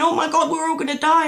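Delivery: high, loud, fast mock panic; hammed-up terror, rushing the words; imitating panicked screaming. Office workers in the dream, panicking loud, high and fast. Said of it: "everybody's screaming and going".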